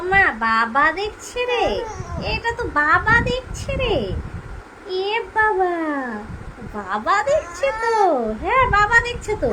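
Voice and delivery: high, loud, thrilled cries; excited. Real, not acted. Mother excitedly telling baby daddy is watching. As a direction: burst out with delight.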